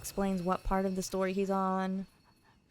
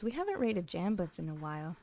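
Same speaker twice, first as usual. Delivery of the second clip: ordinary talk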